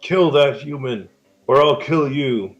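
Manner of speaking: a hint of a bossy goblin barking orders; goblin boss voice. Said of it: "The big goblin says".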